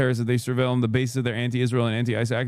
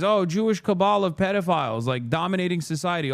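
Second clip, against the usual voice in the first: higher mocking voice; mocking conspiracy talk; 6 semitones higher than usual. Streamer parodying groypers, higher mocking voice. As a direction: sneer at conspiracy fans. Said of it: "the same thing goes for these guys".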